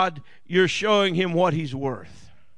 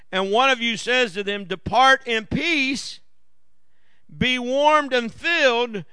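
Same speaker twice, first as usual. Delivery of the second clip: scripture reading; 3 semitones higher than usual. Acted. Reads scripture aloud.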